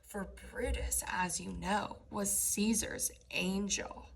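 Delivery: mock-sincere sarcasm; facetious. Shown as a demonstration. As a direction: let the irony drip off angel. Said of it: "he's being facetious".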